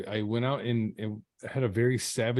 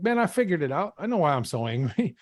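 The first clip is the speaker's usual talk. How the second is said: higher, eager re-enacted revelation; excited announcement; 7 semitones higher, 3 dB louder than usual. Prisoner back at the door telling neighbor his discovery, excited. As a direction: blurt out the discovery, pitch lifted.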